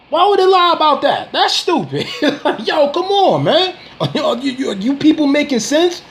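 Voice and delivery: worked-up laughing rant. Real, not acted.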